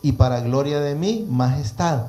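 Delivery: measured, projected Bible reading; preacher reading scripture aloud. Acted. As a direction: read the verse out to a congregation. Reads scripture aloud to listeners.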